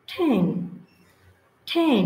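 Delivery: "ঠ্যাং" as then with a puffed T, each time apart; aspirated T. Shown as a demonstration. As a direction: burst of air opening "ঠ্যাং". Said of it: "টাকা দিয়ে যদি এরকম লিখি". ("ঠ্যাং"-এর ঠ মহাপ্রাণ উচ্চারণে)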